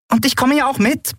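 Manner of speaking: high piping little-creature voice; squeaky chirp. A narrator's reading. Nelen chirping to Endriel, high and squeaky. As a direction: pipe it up small and high. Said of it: "piepste Nelen".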